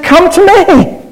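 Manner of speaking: high, eager invitation with no sternness; encouraging invitation. Acted. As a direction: invite them in with a lifted voice. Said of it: "He didn't say it in a stern, aggressive voice".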